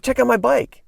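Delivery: a hint of a proud new rider showing off; Larry bragging. Larry shows Chris his new BMX bike, lightly voiced proud brag.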